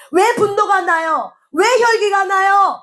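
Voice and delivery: high, slow, drawn-out rhetorical question; emphatic challenge. Real, not acted. Preacher challenges the congregation on their anger, emphatic challenge. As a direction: call the question out, stretching each word.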